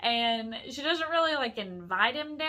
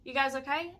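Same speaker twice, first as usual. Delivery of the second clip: raised, higher mock call; retold yelling down; 4 semitones higher, 5 dB louder than usual. Man on balcony checks on women below, mock yell. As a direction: imitate a pestering man calling down. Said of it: "this guy starts yelling down again".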